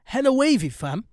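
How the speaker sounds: high, loud burst of hype; excited hype-man holler; hyped exclamation. Real, not acted. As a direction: throw it out big and high. Host hyping the show.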